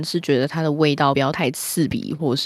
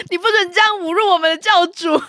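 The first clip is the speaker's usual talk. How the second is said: mock indignation; 11 semitones higher, 5 dB louder, faster than usual. Mock defending Chanel.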